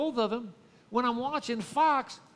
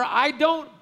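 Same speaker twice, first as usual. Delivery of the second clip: dismissive husband; 3 semitones higher, 6 dB louder than usual. Retold or imitated. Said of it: "he's basically telling her".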